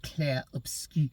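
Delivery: says "Clair Obscur" in a self-admittedly bad French accent; a playful, hammed-up French accent on "Clair Obscur". Shown as a demonstration. Vlogger naming the game, in a mock French accent. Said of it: "a French accent".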